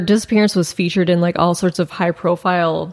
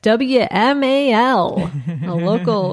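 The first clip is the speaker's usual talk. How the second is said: slow, smooth radio announcer; slower than usual. Pretend. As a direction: read it like a DJ on air. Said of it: "That's my radio voice".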